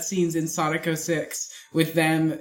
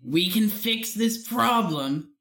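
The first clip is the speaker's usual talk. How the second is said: Ricks; 3 semitones higher than usual. Shown as a demonstration. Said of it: "say something that Rick's would say in the Rick's voice".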